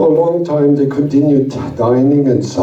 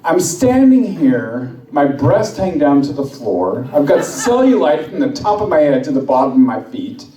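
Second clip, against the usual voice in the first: nagging wife; 3 semitones higher than usual. Acted. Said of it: "She says".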